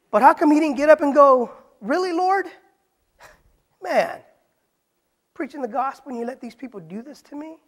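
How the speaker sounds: indignant outcry. Pretend. Paul protesting to God after being stoned, loud outcry. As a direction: throw it up at the Lord, fed up.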